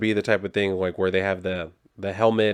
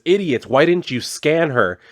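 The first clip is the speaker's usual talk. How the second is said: mildly irate, higher-pitched scolding; pissed-off villain; 6 semitones higher, 4 dB louder than usual. Retold or imitated. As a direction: act out annoyance at incompetent underlings. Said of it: "She's starting to get pissed".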